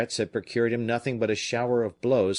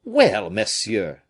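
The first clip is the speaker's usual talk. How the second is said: put-on slow, loud cry in a Provençal accent; 7 dB louder, much slower than usual. Fisherman crying out to Athos in a Provençal accent. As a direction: call out slowly in a Provençal accent. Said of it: "cried the fisherman with his Provençal accent".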